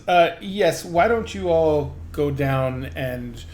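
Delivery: lightly voiced gnome scholar, brisk; a hint of an old gnome sending students off; gnome scholar dismissing apprentices. Gnome scholar sending apprentices off, lightly voiced and brisk.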